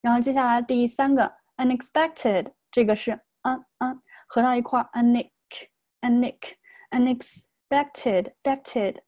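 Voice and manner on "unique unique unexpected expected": "unexpected" built up slowly, "un" joined onto "ex"; linked sounds. Shown as a demonstration. Teacher demonstrates linking in "unexpected", slowly joining the sounds. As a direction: run the n of "unexpected" into the next vowel, piece by piece. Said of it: "这个连读".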